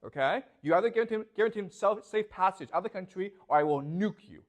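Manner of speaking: loud threat. Retold or imitated. Trump threatening Tehran, a loud mock ultimatum. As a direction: bark the ultimatum like a strongman. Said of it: "So he says to Tehran".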